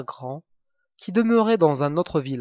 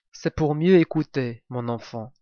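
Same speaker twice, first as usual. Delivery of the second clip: big bad wolf. Wolf answers girl.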